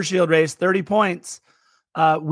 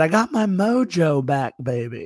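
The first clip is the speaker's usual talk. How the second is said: terrible spy-movie hero voice, drawled, badly on purpose; 3 semitones lower than usual. Telling podcast listeners that you felt like a film character, do a terrible Austin Powers impression. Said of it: "that was a terrible Austin Powers impression I just did".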